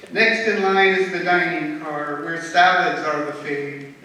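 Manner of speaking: lively rhythmic poem reading; poem recitation. Acted. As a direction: recite the verse with strong openings, falling line ends. Recites own rhyming poem.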